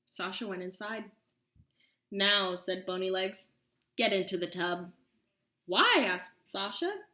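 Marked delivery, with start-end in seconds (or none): 2.1-2.6 witch command. Acted. Witch orders Sasha. 4.0-4.9 witch order. Acted. Witch orders Sasha into tub. 5.7-6.0 high, loud, startled question; startled why. Acted. Frightened Sasha questioning the witch, high and startled.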